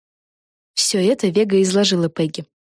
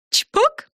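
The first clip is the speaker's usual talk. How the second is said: high, bright sound word; happy pop. A narrator's reading. Fren gleefully announcing the vanishing, high. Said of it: "радостно сказала Френ".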